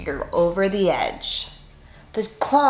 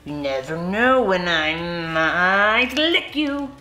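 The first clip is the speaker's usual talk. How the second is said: slow, mock-menacing monster threat; a clumsy monster straining to be scary, slow; trying to sound terrifying; slower than usual. Mac tries to frighten the kid, slow mock menace. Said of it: "trying to sound terrifying".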